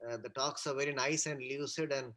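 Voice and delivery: faint, breaking-up audio on a bad call; call dropping out. Real, not acted. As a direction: voice cutting out over the line. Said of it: "Or Sandeep, you are not audible".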